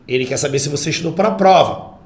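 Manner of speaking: quick statement falling on "prova"; indirect question. Shown as a demonstration. Teacher relays what someone asked, declarative tone with full stop. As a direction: report it plainly and close on "prova". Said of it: "Discurso indireto".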